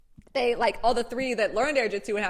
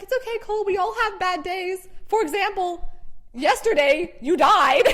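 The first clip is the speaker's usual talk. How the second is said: consoling friend; 8 semitones higher, 6 dB louder than usual. Retold or imitated. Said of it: "She's like".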